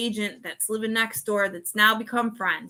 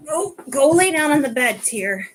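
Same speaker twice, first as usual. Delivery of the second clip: louder, higher command to the pet; telling the dog off; 4 semitones higher, 4 dB louder than usual. Real, not acted. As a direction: send the dog to bed firmly. Ordering the dog to bed.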